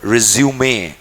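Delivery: "रिज्यूमे" slowly as re-zu-may; "रिज्यूमे" slow, with the final e sounded; French pronunciation. Shown as a demonstration. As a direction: draw out "रिज्यूमे", ending in may. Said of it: "these are French words".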